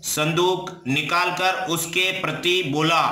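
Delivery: slow, measured phrase-by-phrase reading; deliberate dictation pace; translation read-out. Shown as a demonstration. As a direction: read it out slowly for students to follow. Reads out the translation.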